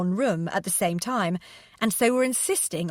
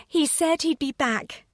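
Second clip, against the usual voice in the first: higher, smiling reply; 7 semitones higher than usual. A narrator's reading. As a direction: say it through a smile. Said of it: "smiled Martha".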